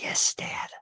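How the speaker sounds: hushed, mournful confirmation; imitating a sad little kid; very soft, near-whispered; sad child. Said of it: "she looks so sad".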